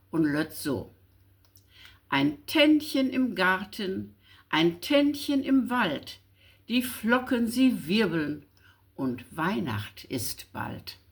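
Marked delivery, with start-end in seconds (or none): 2.1-11.0 gentle, rhythmic verse reading; poem recitation. Acted. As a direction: let each line fall in rhyme, fading on the last. Reciting short poem Vorweihnacht.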